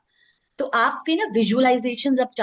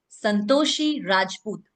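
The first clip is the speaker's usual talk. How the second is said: "Santoshi Rajput" set apart and distinct; stamped name. Shown as a demonstration. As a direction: land "Santoshi Rajput" deliberately, word by word. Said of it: "ठप्पा लगाना है". ("संतोषी राजपूत" पर ठप्पा लगाकर)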